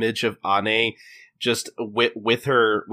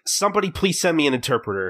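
higher, quick mock plea; mock exasperation; 5 semitones higher, faster than usual. Customer whose order was ignored, mock-exasperated. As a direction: imitate someone begging for help.

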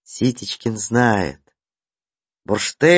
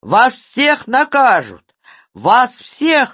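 hysterical; 7 semitones higher than usual. A narrator's reading. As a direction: rant in a hysterical fit. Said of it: "дёргался Ситечкин".

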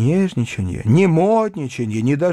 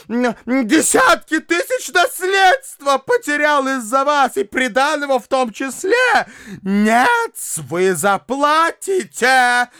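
high, breathless furious harangue; breathless fury; 7 semitones higher than usual. A narrator's reading. Widow accusing the bride of deceit, high furious harangue. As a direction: pour it out choking with rage. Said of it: "задыхаясь от злости".

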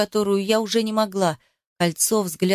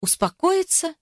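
much higher, an incredulous squeak; incredulous echo; 8 semitones higher than usual. A narrator's reading. Heroine repeating Ruslan's word, shrill disbelief. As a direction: throw his word back in disbelief. Disbelief at being told calm.

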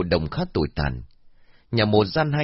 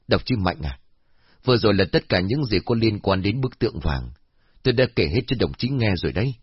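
calming. Acted. Old man calming the dispute.

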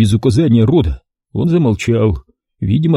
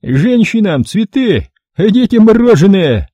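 high, slow, booming mockery; booming gloat; 10 semitones higher, 5 dB louder than usual. A narrator's reading. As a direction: roar out the joke. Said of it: "громогласно заржал хрипатый".

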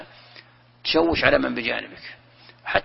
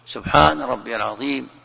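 imitating a worshipper praying too loudly, a little louder; mock loud prayer; 4 dB louder than usual. Preacher imitating a loud worshipper, mildly raised voice. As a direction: recite it the way a noisy neighbour in prayer would. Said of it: "ليش ترفع صوتك؟".

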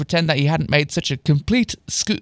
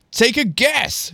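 put-on higher, slow American-accented tease; accidental American accent; 7 semitones higher, slower than usual. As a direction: slip into an American accent, drawn out. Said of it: "I'm adopting the American accent for myself".

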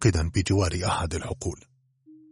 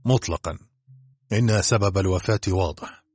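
cold reply; 3 semitones higher than usual. Acted. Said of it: "قال الدكتور ببرود".

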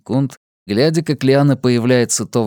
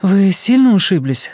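sympathetic; 7 semitones higher, 4 dB louder than usual. A narrator's reading. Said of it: "сочувственно спросила Настя".

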